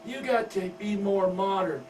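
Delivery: put-on high, coy teen girl voice; giggly daughter. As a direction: wheedle Daddy sweetly. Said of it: "smiles and giggles and says".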